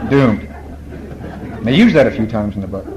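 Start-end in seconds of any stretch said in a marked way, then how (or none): 0.1-0.5 Doomed said flat and heavy; ominous doomed. Shown as a demonstration. Speaker repeating the ancient word Doomed, heavy and ominous. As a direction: let Doomed fall like a verdict. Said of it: "It's one of these ancient words".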